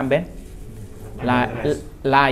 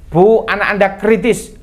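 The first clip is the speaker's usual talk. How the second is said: loud, raised call to the mother; 8 semitones higher, 6 dB louder than usual. Acted. Messenger telling mother her son is critical, calling out. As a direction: call out urgent news.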